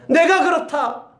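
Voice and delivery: slow, high, emphatic declaration; Jesus declaring himself to his disciples, slow and high; voicing Jesus. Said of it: "하면서 예수님이 말하는 거예요".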